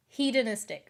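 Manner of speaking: "Hedonistic" begun with a long HEE; long-E pronunciation. Shown as a demonstration. Checking with viewers she has it now, "Hedonistic" with a long hee. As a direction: say "Hedonistic" as hee-duh-NIS-tik. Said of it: "Is that how you".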